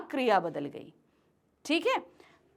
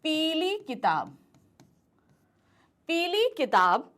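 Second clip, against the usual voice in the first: slow dictation; slower than usual. Shown as a demonstration. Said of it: "क्या लगाएंगे उसका?".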